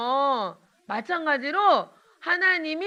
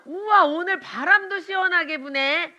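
mock whining; 4 semitones higher than usual. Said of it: "이러면서 막 짜증내면".

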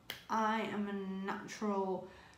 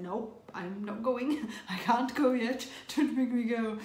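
laughing; 2 semitones higher, 5 dB louder than usual. Retold or imitated. Retold refusal to go in.

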